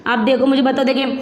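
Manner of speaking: ordinary delivery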